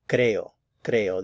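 "creo" as CRE-o, first syllable strong; teacherly CRE-o, falling on the "o" of "creo"; stress on first syllable. Shown as a demonstration. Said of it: "the emphasis is on the first syllable".

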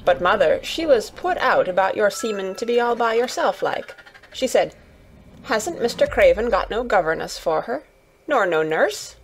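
lightly voiced Yorkshire lass retelling a conversation; a hint of earnest country gossip; chatty Yorkshire Martha. Martha retelling mother's concern to Mary, lightly voiced Yorkshire chat.

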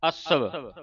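ਅਸਵ leaning on the opening A, half V at the end; stress on first A. Shown as a demonstration. Teacher shows the half vava, first vowel stressed. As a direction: press on the A of ਅਸਵ. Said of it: "ਐੜੇ ਤੇ ਜ਼ੋਰ ਲਾ ਕੇ".

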